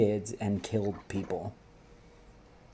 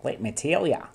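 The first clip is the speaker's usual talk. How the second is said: put-on New Zealand accent; 4 semitones higher than usual. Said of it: "Now, now I'm New Zealand".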